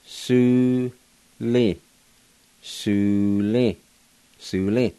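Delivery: "Su, li" split then joined as "Sule"; Cherokee pronunciation. Shown as a demonstration. Teacher pronouncing buzzard in Cherokee, syllable by syllable. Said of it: "now I'll go back and pronounce them".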